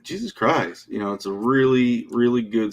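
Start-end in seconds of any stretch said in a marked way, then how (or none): 0.0-0.9 higher-pitched demo of a character catchphrase. Shown as a demonstration. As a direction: say it higher, showing how the voice starts. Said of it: "Just, just do that".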